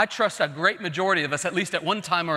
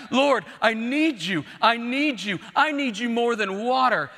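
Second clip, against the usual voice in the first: mildly raised, pleading cry; higher, repeated plea to God; 4 semitones higher than usual. Retold or imitated. Preacher voices dying David's plea, crying out. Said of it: "he keeps crying out".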